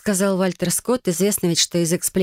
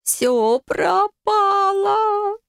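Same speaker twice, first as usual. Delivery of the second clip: long drawn-out groan, pitched much higher; groaning aloud; much slower than usual. A narrator's reading. Heroine collapsing in the carriage, groaning in despair. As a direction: moan it out in despair, very slowly. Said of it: "простонала в голос".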